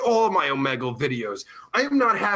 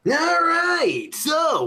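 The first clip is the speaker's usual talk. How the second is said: hyped-up; 9 semitones higher, slower than usual. Real, not acted. Streamer relaunching his show for viewers, hyped-up. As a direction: call it out high to restart the show.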